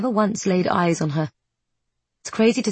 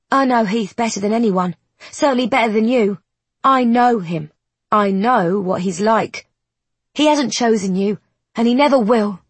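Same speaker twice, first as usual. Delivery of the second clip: calm cold certainty; 4 semitones higher, 5 dB louder than usual. Acted. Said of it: "Her calm tone".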